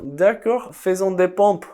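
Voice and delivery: high, loud sarcastic pep; hammed-up, shouted agreement; mock enthusiasm. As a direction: pump it up like a keen trainer. Mock workout answer to sarcastic question.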